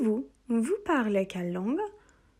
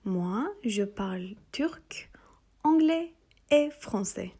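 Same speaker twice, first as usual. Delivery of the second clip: slow repeat model; slower than usual. Shown as a demonstration. Teacher to students, slow repeat model. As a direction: model slowly, lifting anglais. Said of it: "cümlemizi tekrar edelim".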